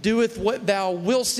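slow, eloquent formal praying; drawn-out, lofty imitation of old-English prayer; mock Shakespearean prayer. Country boys praying at church like Shakespeare, slow mock-eloquence. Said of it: "we talked like William Shakespeare".

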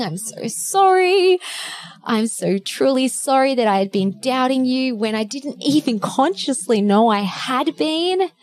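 earnest, emotional self-love; tender affirmations. Retold or imitated. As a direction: say sorry to your body, moved. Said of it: "I'm like".

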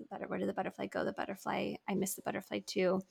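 soft grieving echo. Retold or imitated. Remembering grieving with her daughter, soft and hushed. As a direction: murmur them like a remembered ache. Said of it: "I needed to release that".

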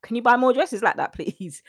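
wowed, with swooping high whoops and a pleading finish; excited admiring husband. Retold or imitated. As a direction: play a husband bowled over by his wife's new look. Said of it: "He's excited".

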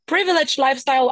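ordinary delivery

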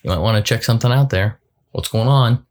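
high, loud ringing "ding, ding, ding"; playful alarm bell voice; warning chime voice. Pretend. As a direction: chime like a dashboard warning light. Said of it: "check engine light that's saying".

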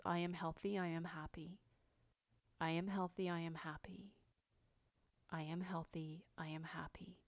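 hushed self-soothing affirmation; calming mantra. Retold or imitated. Repeating her go-to calming mantra.

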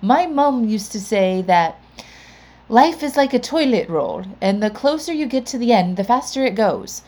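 light imitation of an Irish accent; mild Irish accent quoting a friend's mum. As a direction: retell her line with a hint of an Irish lilt. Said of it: "in her lovely Irish accent".

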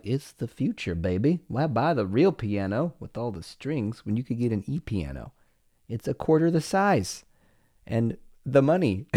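a hint of a pushy salesman selling the E piano; mock salesman pitch. Dad jokingly selling his son on the E piano, a light mock sales pitch.

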